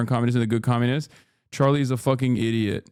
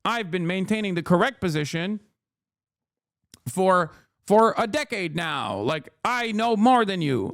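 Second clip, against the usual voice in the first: mock smug gloating; 3 semitones higher than usual. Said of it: "yell at them to be like".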